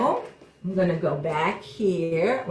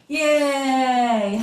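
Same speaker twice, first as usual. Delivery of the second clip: cheering; 4 semitones higher, 4 dB louder than usual. Real, not acted. Cheering after counting pumpkins.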